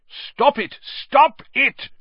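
high-pitched, loud panicked yell; frantic cry. A narrator's reading. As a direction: cry out desperately to break up a fight. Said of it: "cried the manager".

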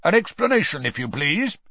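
high, loud accusation; stern. A narrator's reading. Official demanding an explanation from the elf, stern. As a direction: press sternly for an answer. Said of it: "said Mister Diggory sternly".

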